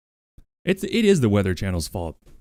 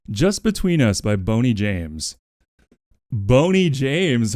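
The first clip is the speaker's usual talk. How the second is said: slow smooth announcement; 2 semitones higher, slower than usual. Acted. Announcing song to chat, lingering.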